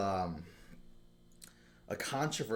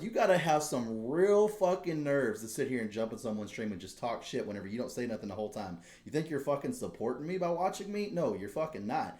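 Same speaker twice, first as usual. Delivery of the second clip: retold rant; 3 semitones higher than usual. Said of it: "I was fucking pissed".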